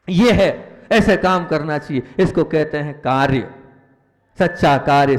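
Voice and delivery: preaching emphatically. Real, not acted. Monk urging his listeners toward true duty, loud and emphatic. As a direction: drive the point home to the crowd.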